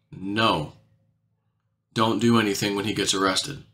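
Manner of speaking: low, softly retold instruction; quiet reply. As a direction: imitate a discreet, hushed order. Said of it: "he quietly replies back to me".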